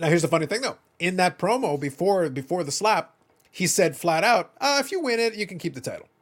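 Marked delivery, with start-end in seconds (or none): 4.6-6.0 mock, very condescending, patronising tone. Retelling what he said in the promo before the slap, mock-condescending. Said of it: "very condescendingly".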